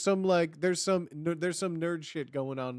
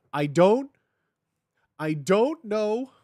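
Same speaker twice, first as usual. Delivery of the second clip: overwhelmed excited outburst; 4 semitones higher, 6 dB louder, slower than usual. Real, not acted. Overwhelmed by the adaptation news.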